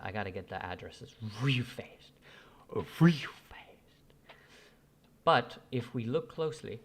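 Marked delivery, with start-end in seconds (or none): 0.0-4.4 hurried whisper to himself. Real, not acted. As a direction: whisper under your breath while busy. Rushing to grab wallet addresses.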